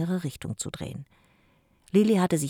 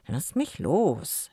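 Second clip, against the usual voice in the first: grumpy; much slower than usual. Acted. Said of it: "wehrte Jim mürrisch ab".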